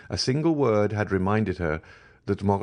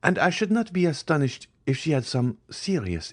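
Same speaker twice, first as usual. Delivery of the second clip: higher, worried tone; uneasy Madame de Villefort; 9 semitones higher than usual. A narrator's reading. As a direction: voice your unease about the child. Villefort worries about Valentine.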